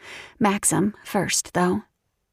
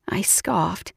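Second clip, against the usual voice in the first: ordinary delivery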